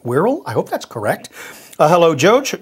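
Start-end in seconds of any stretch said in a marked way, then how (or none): 1.9-2.6 a hint of an English accent, slightly louder; slipping into English accent. Real, not acted. Host reading a listener's letter, slipping into an English accent. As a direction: drift lightly into an English accent. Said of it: "Notice how I began to have an accent".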